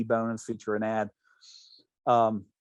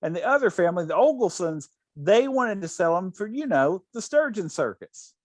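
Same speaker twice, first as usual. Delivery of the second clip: imitating Rose; 3 semitones higher than usual. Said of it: "And she goes".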